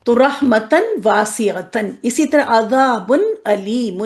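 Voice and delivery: رحمتن واسعتن slowly, every syllable clear; slow recitation. Shown as a demonstration. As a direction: recite slowly like a tajweed teacher. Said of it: "expansion سے سمجھ لیں". (آہستہ تلاوت)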